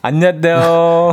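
slow, drawn-out cutesy hello; cute greeting. Retold or imitated. Co-host echoing the employee's hello to the boss, mock-cute. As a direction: echo a put-on childlike greeting. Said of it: "이렇게 좀 귀엽게 인사를 했더니".

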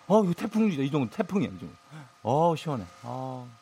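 talking into a fan. Real, not acted. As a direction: voice blown by a fan. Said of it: "선풍기 소리 들리죠".

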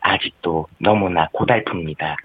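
Park Geun-hye impression. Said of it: "박근혜 씨 한번 해볼래요?".

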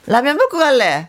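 imitating a forceful Busan dialect; 부산 사투리. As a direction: copy the tougher Busan lilt. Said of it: "부산 쪽은 조금 더 강하거든요". (강한 부산 사투리 흉내)

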